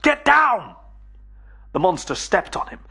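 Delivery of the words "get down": very high, loud, frantic yell; shouted warning. Acted. Billy warning his friends again as the monster steps, yelling high and loud. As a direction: scream the warning at the top of the voice. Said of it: "he shouted".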